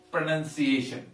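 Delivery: 'pronunciation' with a short 'nun' in the middle; careful pronunciation. Shown as a demonstration. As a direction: say 'pronunciation' clearly, second syllable like 'nun'. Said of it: "the word itself".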